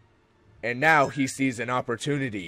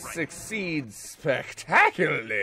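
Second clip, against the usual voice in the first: excited shout; 6 semitones higher, 4 dB louder than usual. Acted. Heroic exclamation.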